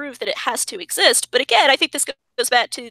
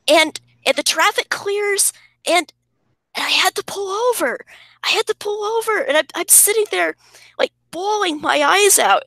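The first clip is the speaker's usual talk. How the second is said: higher, choked-up singer impression, lightly voiced; impression of a singer; 6 semitones higher than usual. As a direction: retell the moment as a lightly done impression of a singer, overwhelmed. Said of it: "that's my singer impression".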